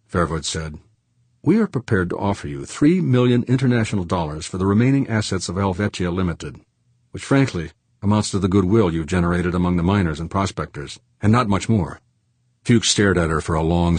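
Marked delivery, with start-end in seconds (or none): 1.4-12.0 smooth things over in a raised pitch; smooth businesswoman. Acted.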